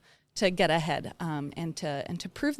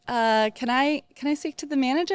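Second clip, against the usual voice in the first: higher, doubtful customer asking for the boss; entitled customer impression; 6 semitones higher, 4 dB louder than usual. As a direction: ask for the manager like you doubt her. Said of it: "they'd be like".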